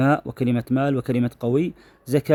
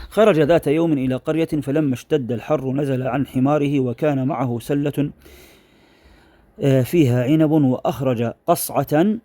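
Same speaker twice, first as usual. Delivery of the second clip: careful formal Arabic read-aloud; measured schoolroom reading, stretching phrase endings; reading a passage aloud; slower than usual. Shown as a demonstration. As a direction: read the textbook story out to a class. Reads textbook passage aloud.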